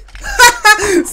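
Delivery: loud, high-pitched laugh; high burst of laughter. Real, not acted. Player laughing at an easy find, high loud burst.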